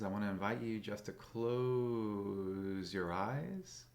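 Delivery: slow, inviting meditation guide; stretched words with gentle pauses; guided meditation. Acted. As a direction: ease listeners into settling down, drawing out key words. Begins leading a meditation.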